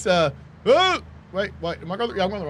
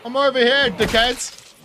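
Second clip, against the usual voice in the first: calling out; 3 semitones higher, slower than usual. Real, not acted. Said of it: "That yell was probably not the best".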